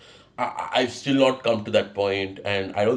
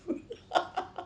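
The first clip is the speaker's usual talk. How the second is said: a short airy giggle, pitched way up; high breathy giggle; 12 dB quieter than usual. Real, not acted. Vlogger giggling at his own roller coaster joke.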